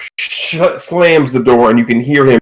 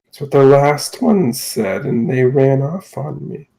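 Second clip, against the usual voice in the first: soft, unhurried captor's voice; wary captor; 5 dB quieter, slower than usual. Acted. Captor refusing to release his talking catch, softly wary.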